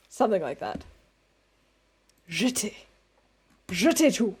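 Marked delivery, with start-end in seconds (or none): 2.3-4.4 American speaking French with a German tinge; tentative French in a German accent. Real, not acted. Streamer trying out French words, German-accented French. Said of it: "Sound like an American speaking French in a German accent".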